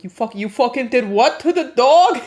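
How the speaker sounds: mock mobster outrage, swelling to a shout; Tony Soprano. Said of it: "I feel like I'm Tony Soprano".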